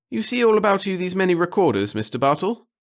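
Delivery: high, loud, self-important speech; pompous little clerk. A narrator's reading. The clerk grandly telling the reporter of his devotion to the center. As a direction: preach your humble service grandly. Pettigill voice.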